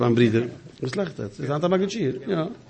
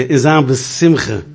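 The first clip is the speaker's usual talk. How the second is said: in Sam Simcha said slow, each word drawn out; slow, deliberate; much slower than usual. Retold or imitated. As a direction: spell out in Sam Simcha slowly and clearly. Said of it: "Ich sag, ich denke". (in Sam Simcha langsam und deutlich)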